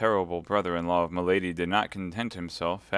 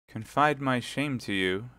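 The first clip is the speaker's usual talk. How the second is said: slow, higher, bashful question; mildly scandalized hesitation; modest shame; 4 semitones higher than usual. Acted. Milady to the young officer, shrinking modestly from confiding. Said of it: "cried milady with the blush of modesty".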